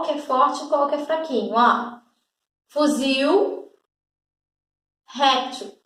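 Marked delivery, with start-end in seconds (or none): 2.7-3.7 Fuzil with a clear, stressed final il; strong final il. Shown as a demonstration. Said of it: "Olha só a diferença do il na terminação". 5.1-5.8 réptil with the final il nearly swallowed; réptil, unstressed il barely heard; weak final il. Shown as a demonstration. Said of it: "o il no final de réptil quase nem apareceu".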